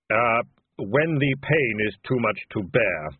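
slow, grave reassuring Death; measured, solemn answer. Acted. Death speaks.

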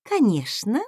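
sweetly mocking "Конечно". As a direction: say it with a taunting smile. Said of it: "издевательски улыбнулась я".

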